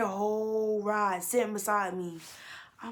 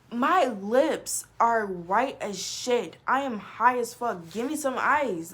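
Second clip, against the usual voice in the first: loud demand; 2 semitones higher, 6 dB louder, slower than usual. Retold or imitated. Demanding ice from the guard.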